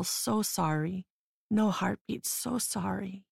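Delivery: doctor consoling the dying mother, soft lilting and slow. Acted. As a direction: let "so sorry" float gently, almost musical. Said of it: "in a soft and lilting tone, almost musical".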